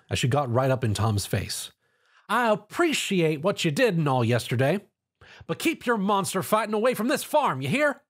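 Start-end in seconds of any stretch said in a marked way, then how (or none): 2.3-8.0 higher pitched scolding, climbing to the end; yelled. A narrator's reading. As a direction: warn him off the farm. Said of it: "she yelled".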